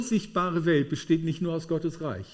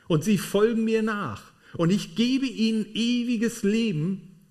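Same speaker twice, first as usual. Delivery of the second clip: 1 Jesus quoted; 4 semitones higher than usual. Acted. Quoting Jesus the shepherd.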